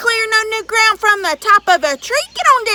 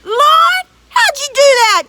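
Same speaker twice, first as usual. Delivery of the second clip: high, loud astonished giant cry; amazed giant; 11 semitones higher, 12 dB louder than usual. Acted. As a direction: burst out in wonder as the giant.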